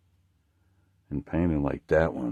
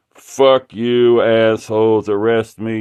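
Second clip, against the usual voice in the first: mock defiant shout; 7 dB louder, slower than usual. Defiant website slogan.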